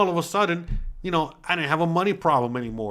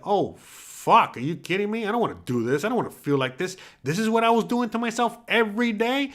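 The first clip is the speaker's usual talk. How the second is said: higher, whiny hungover moan; groaning complaint; 7 semitones higher than usual. Pretend. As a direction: complain like the morning after a binge. Hungover viewer complaining next morning.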